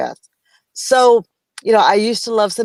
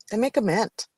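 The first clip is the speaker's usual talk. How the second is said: hushed repeat; 6 dB quieter than usual. Real, not acted. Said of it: "And they make a mint".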